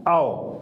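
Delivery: औ said round and open; model vowel. Shown as a demonstration. Teacher to students, demonstrating औ. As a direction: sound out औ. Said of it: "क्या होता है?".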